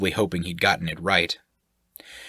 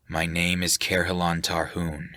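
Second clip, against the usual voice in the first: low displeased tone. Acted. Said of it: "came out in a low tone".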